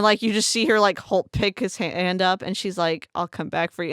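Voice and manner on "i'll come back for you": soft, softer tender promise; quietly choked up, holding back tears; emotional. Retold or imitated. Jade promising her partner softly, emotional. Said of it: "her voice is so emotional".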